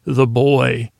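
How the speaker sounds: lightly imitated deadpan warrior; a hint of a Klingon officer's manner; Worf. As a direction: quote it with a slight touch of gruff seriousness. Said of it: "just the way Worf said this".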